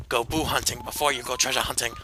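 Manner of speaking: lightly put-on mock Asian accent, catchphrase style. Streamer repeats his new catchphrase in a light mock Asian accent. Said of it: "with a very, very racist Asian accent".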